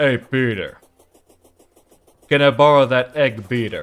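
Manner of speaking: very loud, booming, put-on manly voice. Asked for your most manly voice, you try a failed Patrick Warburton impression. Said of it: "Do your most manly voice you can".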